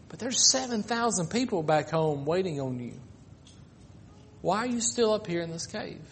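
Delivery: preacher voicing God's gentle words softly; quiet voice of God. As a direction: ease right down like a still small voice.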